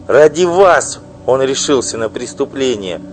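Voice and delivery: loud, high, bitter tirade; furious wife. Acted. Wife denouncing her husband's mistress, furious loud outburst. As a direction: spit out the insults at her rival.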